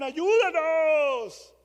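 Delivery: long, drawn-out loud high plea; stretched-out pleading yell; desperate cry for help. Retold or imitated. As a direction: wail it slowly like people drowning in a storm. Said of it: "y otros gritaban".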